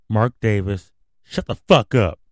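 loud, fed-up outburst; angry shout. Real, not acted. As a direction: yell it at him with contempt. Telling off Mark Davis.

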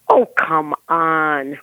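slow, drawn-out exasperation; exasperated. Retold or imitated. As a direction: stretch it out in retold disbelief. Retelling her own exasperated thought.

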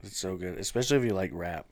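fading away quietly; trailing off. Real, not acted. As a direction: let the words drift off. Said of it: "I was just kinda trailing off".

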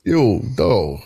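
yo dog, tough New York; mock Jersey tough guy; New York accent. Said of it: "Jersey, New York accent".

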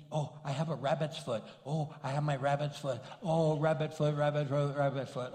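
a touch of mock fawning; mocking devotee. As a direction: lightly mimic someone doting on a lucky charm. Mocks devotion to a lucky charm.

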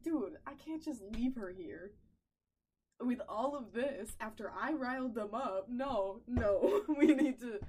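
retold plea to her uncle, building from firm to loud; building insistence. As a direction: press harder and harder.

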